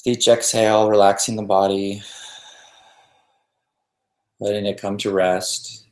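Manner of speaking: calm meditation guide with long pauses between phrases; even, settled voice leaving room to breathe; guided meditation. Real, not acted.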